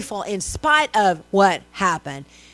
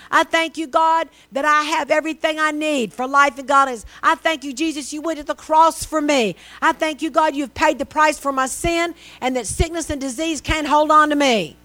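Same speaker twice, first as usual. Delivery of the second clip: earnest thanksgiving prayer, pitched higher; prayer of thanks; 4 semitones higher than usual. Shown as a demonstration. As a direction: pray it aloud with rising fervour.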